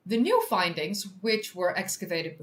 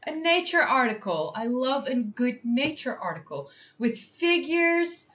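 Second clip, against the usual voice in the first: excited; 3 semitones higher than usual. Real, not acted. Streamer cheering an open-access article to chat, excited.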